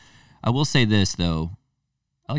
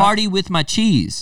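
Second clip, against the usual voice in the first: playful high; 12 semitones higher, 3 dB louder, slower than usual. Pretend. Mock playful line.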